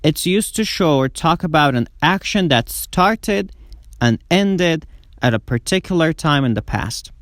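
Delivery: very slow, careful English sentence; slow model reading. Shown as a demonstration. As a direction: read it slowly for students to copy. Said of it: "slow model sentence". (خواندن آهسته و شمرده)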